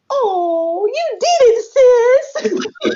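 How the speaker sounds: very high, drawn-out squeal; overjoyed friend. Retold or imitated. Sis cheering her on by phone, squealing delight. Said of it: "then you was like".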